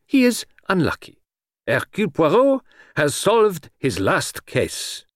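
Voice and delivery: high foreign detective, slowing to a proclamation; Poirot, grandly conceited. Acted. Detective declares his last case solved, grandly conceited. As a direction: pronounce it with lofty self-importance.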